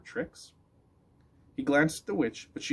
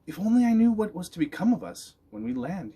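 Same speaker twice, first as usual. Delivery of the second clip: anxious dog voice; 8 semitones higher, 5 dB louder than usual. Acted. Dog's anxious thought.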